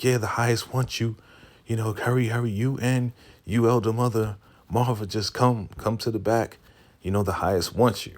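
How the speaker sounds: lightly voiced messenger at the door; urgent summons.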